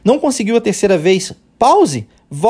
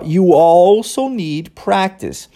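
slow demo; much slower than usual. Shown as a demonstration. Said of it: "é por isso que nós temos aqui, ó".

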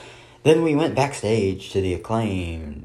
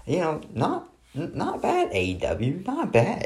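sarcastic praise; 10 semitones higher than usual. Real, not acted.

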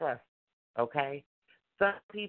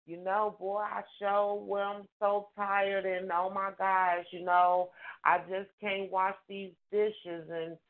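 a lazy, sighing roundabout request; whiny excuses. Retold or imitated. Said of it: "Why do you have to say".

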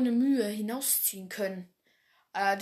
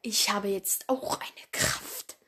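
menacing whisper; slower than usual. Acted. Villain reveals his power.

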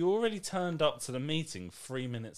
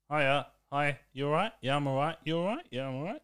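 mock British small talk; 3 semitones higher than usual. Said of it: "here's how the conversation goes".

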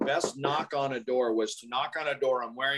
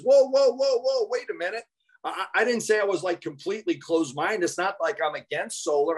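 backpedaling; 5 semitones higher than usual. Retold or imitated. Homeowner calling the salesman back, startled then settling. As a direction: scramble to take it back.

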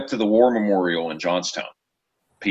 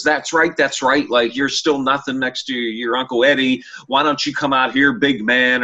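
taunting; 3 semitones higher than usual. Retold or imitated. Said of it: "I don't remember exactly what I said".

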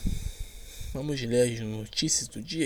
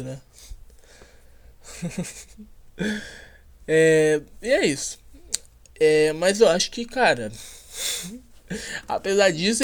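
normal talking voice

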